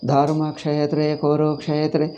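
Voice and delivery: "Dharma Kshetre Kurukshetre" with loose, unstressed consonant clusters; light pronunciation. Retold or imitated. Teacher imitates foreigners' chanting, lightly pronounced "Dharma Kshetre Kurukshetre". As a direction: glide lightly over each "ksh" in "Dharma Kshetre Kurukshetre". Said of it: "See how lightly they".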